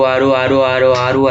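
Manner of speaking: rapid repeats of आरू so they slur together; fast teacher demo of आरू merging. Shown as a demonstration. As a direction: run आरू over and over until it blurs into अर. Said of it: "अगर आप ऐसे fast fast आरू".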